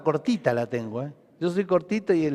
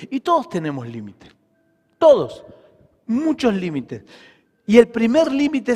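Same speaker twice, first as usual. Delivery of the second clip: raised, emphatic sermon delivery; preaching; 4 semitones higher, 3 dB louder than usual. Real, not acted. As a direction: preach with force, leaning on key words. Preaches to congregation. (prédica enérgica y enfática)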